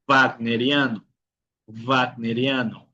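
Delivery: "wagneriano" starting with a V, vag-. Shown as a demonstration. Teacher giving examples of W, "wagneriano" with a V sound. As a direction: say "wagneriano" as "vagneriano", deliberately. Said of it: "puede hacer el sonido de la V".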